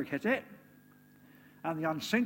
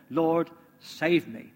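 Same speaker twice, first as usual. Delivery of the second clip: slow, louder plea for rescue; crying out; 6 dB louder, much slower than usual. Acted. Peter sinking in the water, slow desperate cry. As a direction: stretch out Lord, save me, desperately. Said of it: "cried out".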